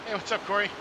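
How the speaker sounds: mock greeting voice. Reading chat message in a voice.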